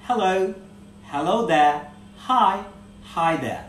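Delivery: loud, separated "Hello", "Hello there", "hi", "hi there" for repeating; teacher modelling "hi there", one greeting at a time; pronunciation drill. Shown as a demonstration. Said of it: "আমার সাথে উচ্চারণগুলো করতে হবে".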